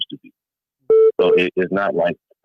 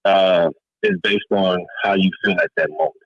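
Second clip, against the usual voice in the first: muffled phone line. Real, not acted. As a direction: voice muffled on a bad call. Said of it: "it sound like you're muffled".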